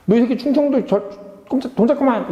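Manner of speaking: a hammed-up threatening bully; mock threat. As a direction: bark it like a sneering bully. Mocking Democrats threatening Chungcheong voters.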